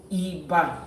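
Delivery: Iba sung flat on the note do. Shown as a demonstration. Showing the class Iba matches do. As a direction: say Iba level like do, do. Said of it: "So, do, do".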